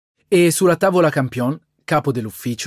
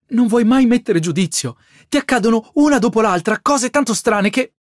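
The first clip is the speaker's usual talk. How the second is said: higher, louder exasperated scold; scolding sister; 8 semitones higher, 4 dB louder than usual. A narrator's reading. Sister scolding her reckless brother, higher and louder. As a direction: tell him off, fed up.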